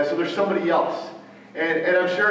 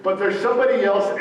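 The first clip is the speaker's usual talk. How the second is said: higher and louder, a little faster; telling her outright; 5 semitones higher, 4 dB louder, faster than usual. Retold or imitated. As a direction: announce it firmly to Ruth. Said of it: "he's telling Ruth".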